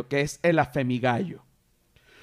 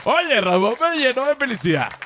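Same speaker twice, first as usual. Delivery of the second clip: laughing joy; 7 semitones higher than usual. Real, not acted. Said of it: "Tengo que aceptarlo".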